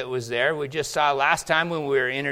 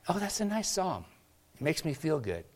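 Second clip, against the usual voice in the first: mock shallow praise; 3 semitones higher, 7 dB quieter than usual. Mocking shallow churchgoer's reaction.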